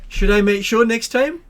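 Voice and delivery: called out high, loud and drawn out; yelling out. Acted. Gravedigger calls after departing customers, yelling out slowly. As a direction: yell it after someone walking away. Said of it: "you hear him yell out".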